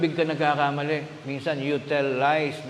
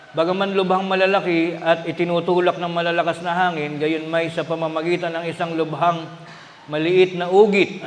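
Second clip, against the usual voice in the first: solemn scripture reading from the pulpit; 4 dB louder than usual. Acted. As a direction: read the verse out to the congregation. Reads the Bible verse aloud.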